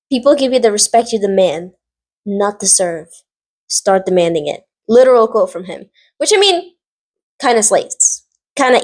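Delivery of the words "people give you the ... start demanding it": measured, serious retold line; quoting Charles, deliberate. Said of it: "And he goes".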